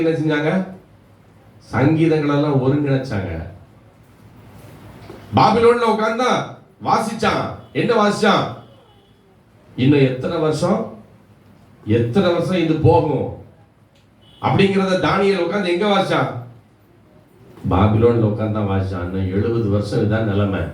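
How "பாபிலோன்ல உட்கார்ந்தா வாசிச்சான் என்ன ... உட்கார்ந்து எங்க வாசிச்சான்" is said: high-pitched, emphatic sermon questions; preacher pressing a rhetorical point; impassioned preaching. Real, not acted. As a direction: quiz the congregation in a raised preaching voice.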